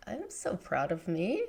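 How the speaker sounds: sincere quiet pride. Retold or imitated. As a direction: say it to yourself, meaning it. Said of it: "I was just like".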